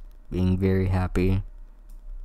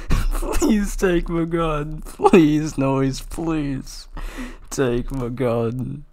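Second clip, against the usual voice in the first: high, drawn-out begging voice; whiny high begging; high pleading; 7 semitones higher, 4 dB louder, slower than usual. Acted. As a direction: beg high and slow. Character begging repeatedly.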